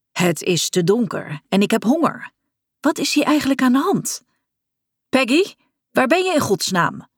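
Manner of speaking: building into a fretful call in the dark. Acted. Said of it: "riep hij in het donker".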